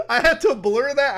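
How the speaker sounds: laughing. Real, not acted. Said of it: "I had to bleep that one out".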